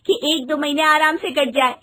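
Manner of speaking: light giggly reassurance; wife giggling at husband's resignation news; giggling carelessly. Acted. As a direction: laugh it off cheerfully. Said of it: "तुम खिलखिलाकर हंस रही हो".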